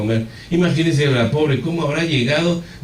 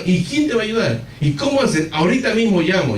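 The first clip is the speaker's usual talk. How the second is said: high-pitched, frantic questions; urgent, raised-pitch worry; retold desperation; 6 semitones higher than usual. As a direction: act out a worried husband on the phone. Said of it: "Y yo desesperado".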